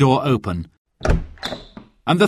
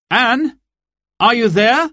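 higher call through the door; 12 semitones higher, 4 dB louder than usual. Acted. Robin at Anne's door, calling out higher. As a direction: call into the house. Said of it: "he called".

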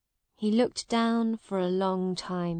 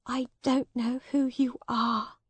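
higher, halting, subdued lady's voice; sad Lady Edith; 4 semitones higher than usual. Acted. Sad lady denies the man who loves her, subdued. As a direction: deny him sadly, holding back tears.

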